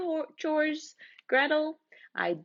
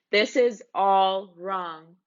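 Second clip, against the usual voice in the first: slow exasperation; 3 semitones lower, 5 dB louder, much slower than usual. Acted. Narrator protests ending.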